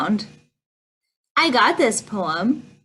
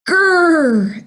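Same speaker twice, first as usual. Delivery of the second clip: long drawn-out grrr; playful growl, held on the r; bear growl; 5 semitones higher, 5 dB louder than usual. A narrator's reading. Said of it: "is the sound of a growling bear".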